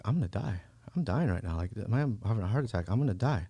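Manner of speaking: quietly accepting, back in a natural register; calm resignation. Retold or imitated. Passenger lying on the ground sensing death, calm resignation. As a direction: retell it with mild, settled acceptance. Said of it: "I had, like, a sense of calm".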